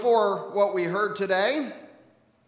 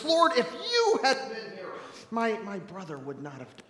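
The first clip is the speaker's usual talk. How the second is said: blaming lament. Acted. Mary at Jesus' feet blaming him, lamenting. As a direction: blame him, then let the voice sink. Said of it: "laments and then blames Jesus".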